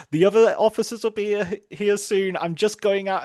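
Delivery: imitated officer, pitched well up; high-voiced mock reassurance, briskly begun; Jodie Foster. Rescuer telling the captive she is stepping out, lightly hammed-up reassurance. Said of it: "And Jodie Foster says".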